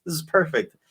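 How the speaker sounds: high, excited retold cheer; mock-thrilled, pitch jumping up; delighted reaction. Friends greeting tacos at a party, excited.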